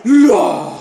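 long, loud yells of triumph; goal celebration. Real, not acted. Gamer cheers his goal, elated shouting. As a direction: yell it out, drawn out.

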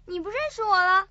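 quick question choked with crying; tearful plea. Acted. Girl crying to her old friend who no longer knows her, tearful and rushed. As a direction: blurt it out through tears. Tearful reunion, memory lost.

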